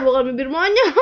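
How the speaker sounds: laughing through the words. Real, not acted. Laughing at baby's pout. (sambil tertawa)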